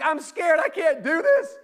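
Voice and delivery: put-on high, loud panicked child; scared kid pleading. Boy pleading with mom in the stands, high and loud. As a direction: beg like a frightened ten-year-old. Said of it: "And I was like".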